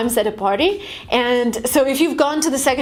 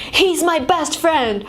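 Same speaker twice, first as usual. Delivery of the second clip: slow, higher, emphatic claim; exaggerated enthusiasm; 4 semitones higher, slower than usual. Shown as a demonstration. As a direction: draw it out with gushing emphasis. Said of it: "again, exaggerate everything".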